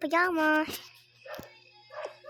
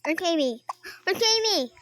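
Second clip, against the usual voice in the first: alarmed call; 2 semitones higher, 7 dB louder than usual. Pretend. Searching for missing sister.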